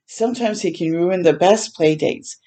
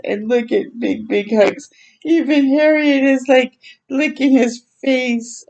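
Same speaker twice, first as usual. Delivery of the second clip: tearful; 4 semitones higher than usual. Real, not acted. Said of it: "I just got goosebumps".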